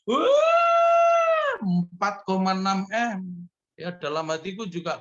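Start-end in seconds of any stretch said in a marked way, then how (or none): 0.1-3.5 a very high, loud cry of disbelief; loud shout. Retold or imitated. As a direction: yell it out at the top of the voice. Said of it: "dia teriak keras". (teriakan keras dan tinggi)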